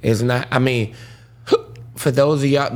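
talking through hiccups; words broken by hiccups. Real, not acted. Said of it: "the hiccups is kicking my ass right now".

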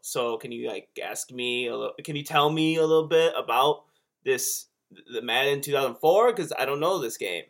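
lightly put-on voice of a hesitant friend; a light impression, halting and feeling out the question; Wheeze. Friend leaving a voice message asking for clarification, lightly imitated. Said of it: "That's actually a really good impression".

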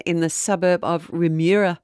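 "Remuera" with an accidental Scottish lilt; a slip into Scottish on "Remuera"; New Zealand place name that comes out sounding Scottish. Shown as a demonstration. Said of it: "no, that sounded Scottish".

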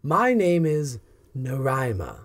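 measured, drawn-out villainess voice; unhurried theatrical self-introduction; self-appointed stepmother, insistent. Acted. Villainess introduces herself as mom to unwilling children, unhurriedly.

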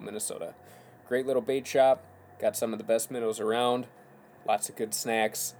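upbeat sponsor read, punchy words. Acted. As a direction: sell the bait shop like a radio spot.

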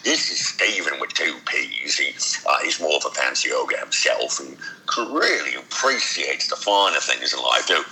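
a hint of a refined ogre; Stephen the fancy ogre. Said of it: "get into more of an ogre voice".

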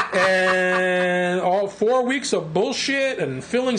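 laughing through the words. Real, not acted. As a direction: speak slowly while laughing.

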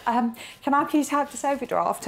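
high, pleading voice, lightly acted; mock plead to the bank manager for the overdraft; begging. Retelling asking the bank manager for money, high pleading voice. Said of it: "And I literally begged him".

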